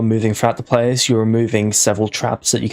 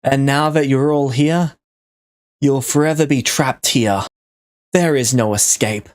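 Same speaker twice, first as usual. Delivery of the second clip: anime villain voice; 3 semitones higher than usual. Acted. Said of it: "why are you talking like an anime villain".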